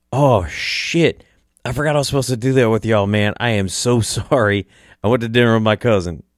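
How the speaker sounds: imitating a flustered apology; apologetic. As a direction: act out his sudden, sheepish remembering. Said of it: "he is so apologetic".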